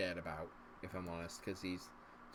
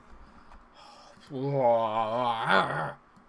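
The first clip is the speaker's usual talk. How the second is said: long heavy sigh of frustration; loud exasperated sigh; 7 dB louder than usual. Real, not acted. Gamer sighing at his team's poor play, loud and heavy. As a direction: let out a big fed-up sigh.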